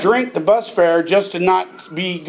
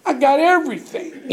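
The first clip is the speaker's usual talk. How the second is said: excited pride; 6 semitones higher than usual. Real, not acted. Excitedly listing what he owns.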